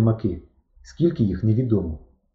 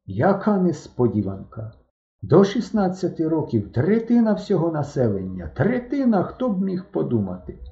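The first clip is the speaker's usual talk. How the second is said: lightly voiced mournful lament, higher; mild sorrowful sigh through the words; sad voice; 6 semitones higher than usual. A narrator's reading. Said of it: "своїм звичним сумним голосом". (сумний голос, трохи вище)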